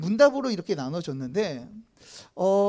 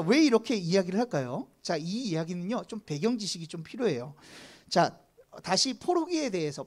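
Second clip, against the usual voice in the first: ordinary delivery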